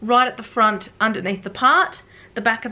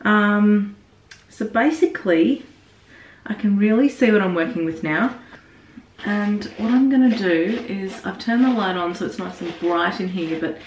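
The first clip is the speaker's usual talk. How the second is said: bathroom echo. Real, not acted. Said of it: "So sorry about the echoing".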